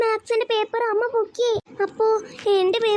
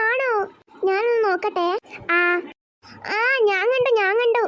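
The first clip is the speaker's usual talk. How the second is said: gleeful gossip; 2 semitones higher than usual. Acted. Neighbour gleefully watching beating.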